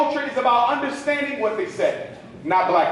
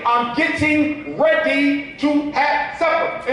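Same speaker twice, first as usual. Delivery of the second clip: slow, each word said separately; careful enunciation; 3 semitones higher, slower than usual. Shown as a demonstration. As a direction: spell out "supper" like a prim speaker. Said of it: "you have to enunciate the words".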